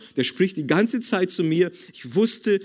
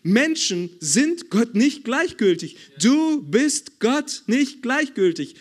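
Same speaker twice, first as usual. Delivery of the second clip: higher, slow, forceful denial; fervent rebuttal to the congregation; emphatic preaching; 5 semitones higher than usual. Acted. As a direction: preach it hard against the lie. Preacher refutes a lie emphatically.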